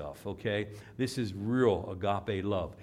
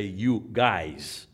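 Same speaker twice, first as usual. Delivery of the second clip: "You guys" in a Midwestern accent, no s on You; 4 dB louder than usual. Shown as a demonstration. Preacher showing his acquired speech, Midwestern accent "You guys". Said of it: "I developed a Midwestern accent".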